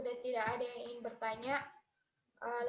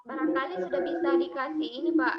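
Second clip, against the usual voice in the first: louder, for a listener who can't hear; speaking up; 5 dB louder than usual. Real, not acted. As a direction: raise your voice over a bad line. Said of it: "Nggak kedengaran suaranya".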